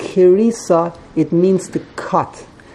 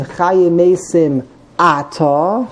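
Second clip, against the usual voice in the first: Ata stressed on its first syllable, AH-ta; stress on the Aleph; slower than usual. Shown as a demonstration. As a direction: slowly, hit the opening A of Ata. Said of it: "put the emphasis on the Aleph".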